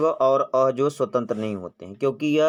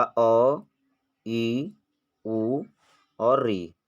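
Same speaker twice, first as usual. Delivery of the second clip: slow vowel listing; much slower than usual. Shown as a demonstration. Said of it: "आपके ये क्या कहलाते हैं".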